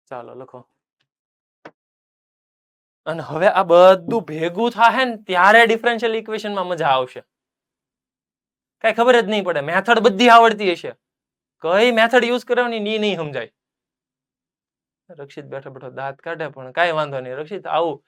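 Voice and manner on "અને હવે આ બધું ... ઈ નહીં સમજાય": higher and louder, building up the drama; excited warning. Acted. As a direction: rise up and get louder as you warn of the trouble ahead. Warning of exam confusion. (વિદ્યાર્થીઓને પરીક્ષાની મૂંઝવણ વિશે ઊંચા, મોટા અવાજે ઉત્સાહથી ચેતવતા)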